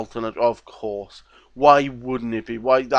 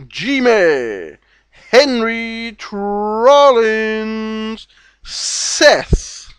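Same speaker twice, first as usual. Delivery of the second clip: calling out names; 5 semitones higher, 6 dB louder, much slower than usual. Real, not acted. Shouting out names.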